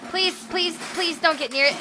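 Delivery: high-pitched, worried begging; anxious pleading. Real, not acted. Viewer begging the builder to keep away, anxious pleading. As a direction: plead with them to keep back. Watching a dangerous test, pleading.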